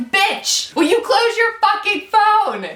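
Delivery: high, sharp retold yell at the girl; fed-up yell. Yelling at the girl who opened her phone in the dark room, angry. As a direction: snap at her like you've had it. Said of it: "I had had it. ... I'm like".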